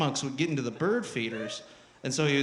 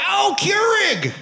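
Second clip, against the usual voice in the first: mock redneck indignation, loud, high opening; hammed-up redneck accusation; angry redneck; 4 semitones higher, 5 dB louder than usual. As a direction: stretch the first words in scornful redneck outrage. Irate redneck taunting a company.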